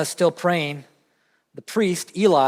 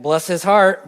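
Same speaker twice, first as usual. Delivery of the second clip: Southern saying; 5 dB louder than usual. Shown as a demonstration. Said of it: "All right".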